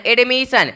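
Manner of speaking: एडमिशन said with a palatal श sound, falling; pronunciation demo. Shown as a demonstration. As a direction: model एडमिशन with the shifted s sound. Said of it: "ये स में बदल जाएगा".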